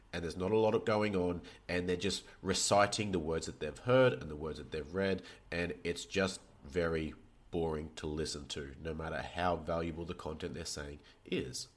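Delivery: flat, droning and low-energy; monotone voice. Shown as a demonstration. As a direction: recite it like a bored lecturer. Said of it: "Imagine if I spoke like that".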